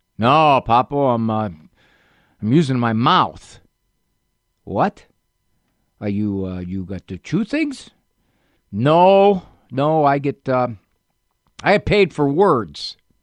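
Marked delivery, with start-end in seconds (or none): 4.6-7.9 put-on puzzled Italian accent with swooping sing-song pitch. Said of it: "Papo never lost his Italian accent".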